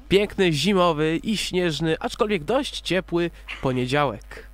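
ordinary talk, nothing marked

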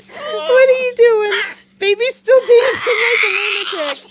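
real laughing delight; delighted outcry. Real, not acted. Laughing at the wild dancing.

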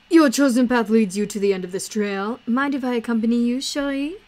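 lightly voiced courteous showman; theatrical game character. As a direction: read it as a grand, courtly companion. Voices Idris's game dialogue.

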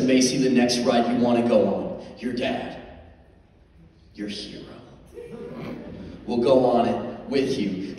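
halting, self-important dad announcement; mock-heroic proclamation with big pauses; puffed-up hero. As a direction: declare it like a chest-out hero. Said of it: "So I puffed up my chest".

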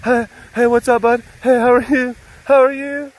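very high, loud gushing hello; excited greeting. Retold or imitated. The pet greeting her pal, high and overjoyed. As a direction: greet an old friend ecstatically. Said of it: "Noe's just like".

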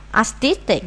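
"Artistic" stressed on TIS; second-syllable stress. Shown as a demonstration. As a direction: say ar-TIS-tic, leaning on the middle syllable. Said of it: "nhấn âm hai".

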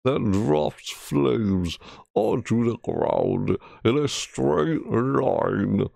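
slow, drawn-out announcer read; put-on reading voice. Shown as a demonstration. Streamer reading weapon text aloud, slow mock-announcer voice. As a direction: read the blurb slowly like a game trailer. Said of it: "as I'm talking like that".

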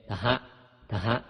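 "ทะฮะ" run together as dha; aspirated Pali consonant. Shown as a demonstration. Teacher demonstrates Pali letters to readers, h-blended "ทะฮะ". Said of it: "ออกเสียงทอทงกล้ำหอหีบเป็น".

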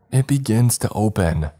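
high, thrilled cry of triumph; loud ecstatic cry. A narrator's reading. Earl seeing the portal open, crying out high and ecstatic. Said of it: "Earl cried in a loud, ecstatic voice".

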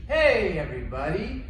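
excited shouted game signal; yelled call. Acted. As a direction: shout so the kids freeze. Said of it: "I'm gonna yell out".

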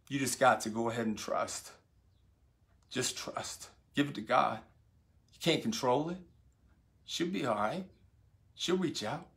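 soft, steady, unhurried reassurance, dropping to a hush on the word trust; calm reassurance. Retold or imitated. A friend calmly reassuring a worried father. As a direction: quietly talk a scared friend down. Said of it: "I saw the coolness about him".

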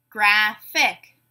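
"Graphic" split in two, graph-ic; two separate beats on "Graphic", gap between; syllable by syllable. Shown as a demonstration. Teacher giving a word to blend, said syllable by syllable. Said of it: "say the syllables in a word".

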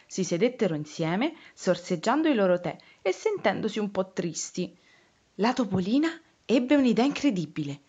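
put-on lively storytelling for small children; story narration. Reading a picture book about frogs and a lost hat, storytelling voice. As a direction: read the tale expressively, giving each figure a lift.

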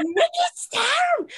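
put-on very high, drawn-out accented squeal; Nikki Storm impression. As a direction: stretch it out in a hammed-up accent. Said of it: "That's great impression".

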